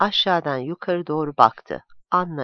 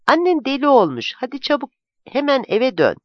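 put-on higher, louder, alarmed order to a child; urgent scolding; 7 semitones higher, 4 dB louder than usual. A narrator's reading. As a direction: send the child off at once. Urgently sends child back home. (telaşlı, azarlar gibi, tiz ve yüksek)

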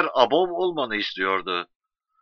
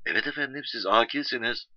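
lightly voiced, softer operator's reply; polite official on phone; 7 dB quieter than usual. Operator confirming to an excited caller, lightly voiced and polite. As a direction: answer courteously, much quieter than the caller. Official answers him on telephone.

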